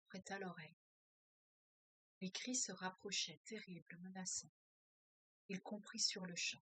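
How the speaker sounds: measured, steady reading-aloud voice; story reading. A narrator's reading. Teacher reading a novel aloud to her class, measured narration. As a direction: read the novel passage to the group, calm and even.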